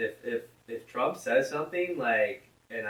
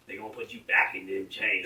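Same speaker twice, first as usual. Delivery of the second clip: Joe Biden; 3 dB quieter than usual. Retold or imitated. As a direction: imitate a politician putting on a Southern accent. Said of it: "He doesn't talk like that".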